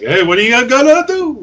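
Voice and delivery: high, loud mock Jewish mother. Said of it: "she sounded like a Jewish mother".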